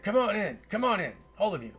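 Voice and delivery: high, loud Scottish wizard voice; Scottish accent. Acted. Wizard waves adventurers in, loud Scottish accent. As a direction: usher guests in with a loud Scottish call. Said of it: "a Scottish accent".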